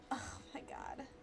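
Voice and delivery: whispered aside. Real, not acted. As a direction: breathe it under your breath. Aside reaction.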